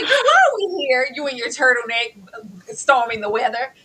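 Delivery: teasing, exasperated scolding; mock scolding. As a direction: scold her like an exasperated friend. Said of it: "It's like".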